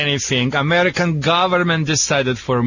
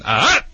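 startle sound; 3 semitones higher than usual. Shown as a demonstration. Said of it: "make that sound".

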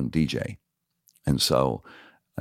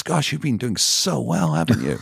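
higher-pitched imitation of her praise; imitated gushing compliment; 6 semitones higher than usual. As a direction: mimic her gushing over you. Voices director who once rejected him.

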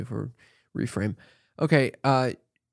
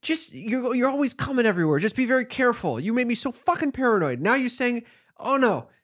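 imitating mother; 9 semitones higher than usual. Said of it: "you're like".

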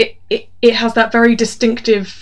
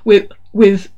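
loud cocky pickup line; cheesy greeting; 4 dB louder than usual. Retold or imitated. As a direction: call out to her like a smooth operator. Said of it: "starts every conversation with her".

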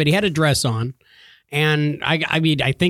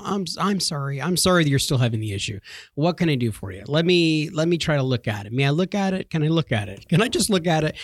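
trying to be professional. Retold or imitated. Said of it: "I was trying to be professional".

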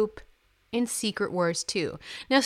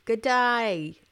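put-on Australian accent; much slower than usual. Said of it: "better with an Australian accent".

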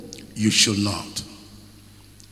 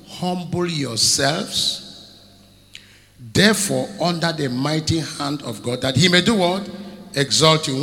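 preached scripture. Acted. Preacher declaiming First Peter to the church. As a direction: read the verse as a call to the congregation.

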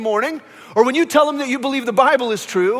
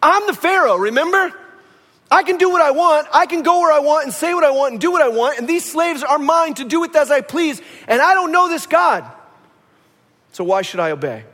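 arrogant Pharaoh; 4 semitones higher than usual. Retold or imitated. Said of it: "the implication is".

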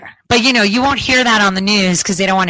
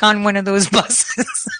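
ordinary talk, nothing marked

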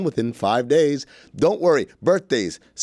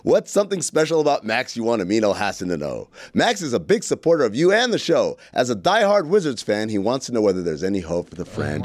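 playing both parts; 3 semitones lower than usual. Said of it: "He's doing both parts".

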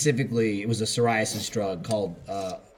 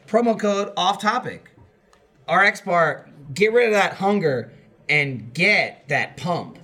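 ad read. Acted. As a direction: spell it out like an announcer. Promo code ad read.

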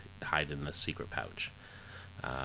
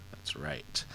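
a breathy stage whisper, higher; 9 semitones higher, 8 dB quieter than usual. Shown as a demonstration. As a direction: repeat it as a secretive whisper.

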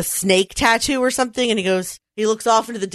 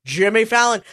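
announcer impression. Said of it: "the Saturday Night Live announcer".

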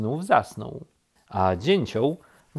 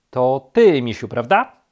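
accusing; 3 semitones higher, 9 dB louder than usual. A narrator's reading. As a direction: press the accusation loudly. Rabbit confronts bear, ready to kick.

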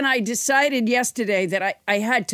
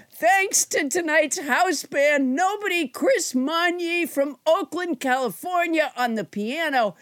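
announcer credit read; 5 semitones higher than usual. Acted. Reads the house band credit.

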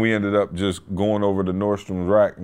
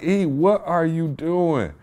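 slow disbelief; 4 semitones higher, slower than usual. Retold or imitated. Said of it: "Bro, I was like".

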